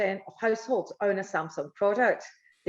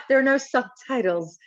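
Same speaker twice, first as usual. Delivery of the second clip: broad Scottish accent. Real, not acted. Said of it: "this very thick Scottish accent".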